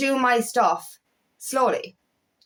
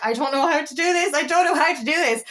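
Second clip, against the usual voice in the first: mild panic, quick and higher; retold freaking out; 4 semitones higher, faster than usual. Retelling nerves before the breakout room, mildly panicked. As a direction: blurt it out in mock panic. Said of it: "I was freaking out".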